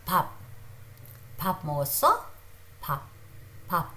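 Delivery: pap with a soft p between b and p; pronunciation demo. Shown as a demonstration. Teacher modelling pap for Korean class, careful. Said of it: "alphabet is pap".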